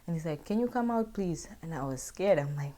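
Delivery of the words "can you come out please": dad calling out. Retold or imitated. Dad asking from the gate.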